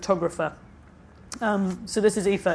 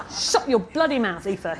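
hissed; 2 semitones higher, 4 dB louder, slower than usual. Acted. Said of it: "he hissed".

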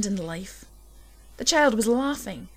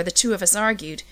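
plain reading voice

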